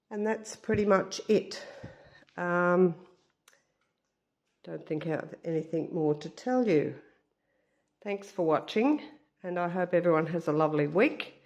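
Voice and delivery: stuffed-up nose, nasal tone. Real, not acted. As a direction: talk through a blocked nose. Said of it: "Excuse my nasally voice".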